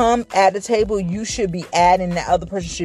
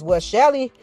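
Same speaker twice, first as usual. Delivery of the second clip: higher, rushed playful self-justifying excuse; hammed-up tattling explanation; mock excuse; 4 semitones higher than usual. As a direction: blurt out a silly excuse, pitched up. Acts out example excuse to God.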